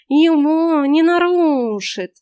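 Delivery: slow, high hissed cat voice; hissing cat. A narrator's reading. Cat hisses a warning to the heroine, slow. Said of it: "прошипел кот".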